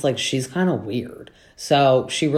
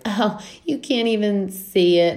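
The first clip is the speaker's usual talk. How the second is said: high mock honky-tonk twang; amateur honky-tonk impression; imitated honky-tonk voice; 8 semitones higher than usual. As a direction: put on a honky-tonk voice, pitched up. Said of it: "she's got a deep little, like, honky tonk voice".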